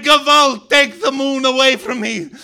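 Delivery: loud, high pleading wail; anguished shout, slowing into a long wail; desperate crying out. A narrator's reading. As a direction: cry out in a nightmare, stretching the final confession. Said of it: "I cried".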